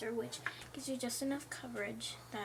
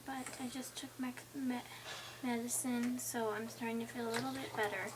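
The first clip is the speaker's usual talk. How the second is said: stuffy, sinus-blocked voice; sick voice. Real, not acted. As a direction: talk with a blocked nose. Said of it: "I've been sick with a sinus infection".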